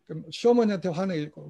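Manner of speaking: ordinary talk, nothing marked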